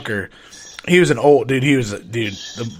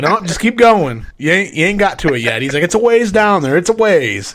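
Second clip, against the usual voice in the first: teasing reassurance; 5 semitones higher, 4 dB louder than usual. Retold or imitated. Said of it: "He'd be like".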